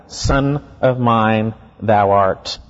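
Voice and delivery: very slow, low "Son of mine", each word weighted, then "thou art"; emphatic. Retold or imitated. Preacher showing the Greek word order, emphatic. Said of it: "It's emphatic".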